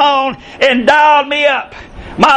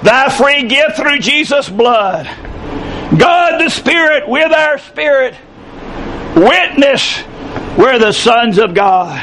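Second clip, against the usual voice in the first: hymn recitation. Acted. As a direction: recite a hymn from the pulpit, line by line. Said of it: "It goes like this".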